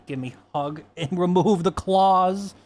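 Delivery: laughing plea. Real, not acted. Owner laughing as the cat claws her, loud laughing plea. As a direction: laugh while begging the cat to let go.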